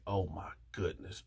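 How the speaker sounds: very soft, low melted murmur; melting. Retold or imitated. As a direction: let it sink away softly, melting. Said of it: "I just melted like".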